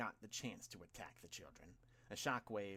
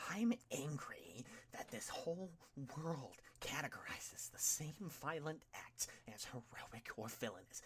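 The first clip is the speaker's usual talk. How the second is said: villain rant; 5 semitones higher than usual. A narrator's reading. Tomura's villain rant to All Might.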